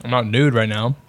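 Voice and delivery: words round a mouthful of chips; chewing while talking. Real, not acted. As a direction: talk while chewing a crunchy snack. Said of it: "Sorry, I'm trying to eat".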